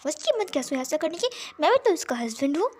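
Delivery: hurt, angry rant. Acted. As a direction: vent at Lili, voice climbing. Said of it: "वो लिली के ऊपर चिल्लाने लगा".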